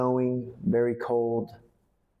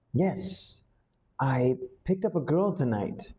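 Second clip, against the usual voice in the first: unsure, searching for words; trying to recall, a bit higher and halting; hesitant; 4 semitones higher than usual. Shown as a demonstration. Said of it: "you say it like that because you can't really remember".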